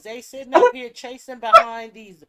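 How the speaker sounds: loud, high heated rant; angry. Real, not acted. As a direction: rant with rising fury.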